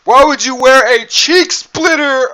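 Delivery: high, slow, loud disbelief; squeaky mock outrage at the question; incredulous. Real, not acted. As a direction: ask it like it's absurd. Mocking the thong wearer.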